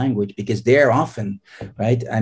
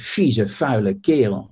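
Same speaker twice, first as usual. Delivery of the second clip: mock angry curse. Shown as a demonstration. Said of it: "when I'm really angry, I can say".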